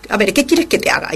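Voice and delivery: fast, impatient and curt; rude answer. Shown as a demonstration. How we would answer a favour asked, fast and rude. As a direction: snap it out, annoyed. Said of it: "contestaríamos de mala manera".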